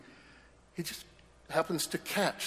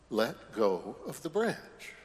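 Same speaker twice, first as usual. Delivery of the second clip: simply repeats. Acted. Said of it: "The voice simply repeats".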